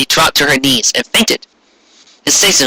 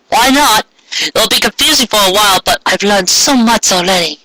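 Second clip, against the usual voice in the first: put-on high, bright young girl voice, bewildered; Molly's girlish voice; 4 semitones higher than usual. Confused girl questioning the strangers around her, high voice. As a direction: pitch way up as a startled girl.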